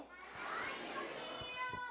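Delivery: a tiny squeaky hello; high puppet voice. Acted. Puppet greets five-year-old Camille, high.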